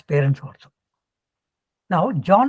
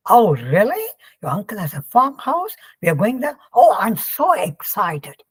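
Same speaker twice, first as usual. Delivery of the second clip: hammed-up American excitement, higher-pitched; excited American; 3 semitones higher than usual. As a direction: play an over-excited American guy. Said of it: "Americans are always excited about anything".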